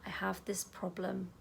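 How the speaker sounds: calm self-talk while tapping; gentle affirmation. Shown as a demonstration. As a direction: say it tenderly to yourself. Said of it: "you're gonna tap again and you're gonna say".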